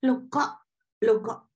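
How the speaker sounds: high, startled double take; dumbfounded. Retold or imitated. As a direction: act out being lost for words. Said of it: "Saya sampai speechless, nggak bisa ngomong".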